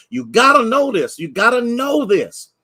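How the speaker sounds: preacher hammering the point; emphatic call. Real, not acted. Preacher repeats line for emphasis.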